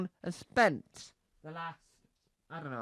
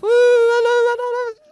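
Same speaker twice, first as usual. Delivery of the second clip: much higher, loud whooping hello; mock excited greeting; 13 dB louder, faster than usual. Nervous comic greeting the crowd with a high loud whoop. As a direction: bound on whooping like an eager comic.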